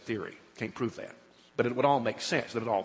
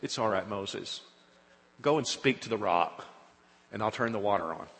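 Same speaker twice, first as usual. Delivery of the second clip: softer, lower, calm reassurance; God soothing Moses, softer and lower; reassuring God; 5 semitones lower, 3 dB quieter than usual. Acted. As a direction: gently comfort Moses. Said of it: "And God says".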